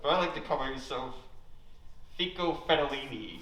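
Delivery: lightly put-on voice of a film guy; slight hammed-up swagger; Charlie Billings impression. Mocking a friend's film hobby for the crowd, lightly voiced. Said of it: "this is my impression of Charlie Billings".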